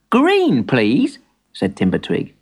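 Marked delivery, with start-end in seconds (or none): 0.1-1.2 put-on young boy voice. Boy character voice.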